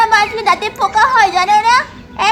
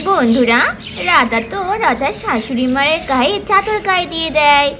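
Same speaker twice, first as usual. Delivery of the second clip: lower, steady storyteller voice addressing friends; story narration; 3 semitones lower than usual. A narrator's reading. Narrator telling friends what Radha does, lower storytelling voice. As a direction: tell the tale to the viewers.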